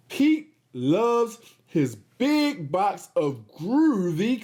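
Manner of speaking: slow, lively storybook reading; reading to children. Acted. Host reads Pete the Cat aloud to the kids. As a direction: read it out to little kids.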